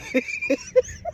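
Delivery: high-pitched, helpless real laughter; laughing fit. Real, not acted. Recapper loses it over crying about the budget, laughing. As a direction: crack up completely. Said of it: "I'm sorry, for real".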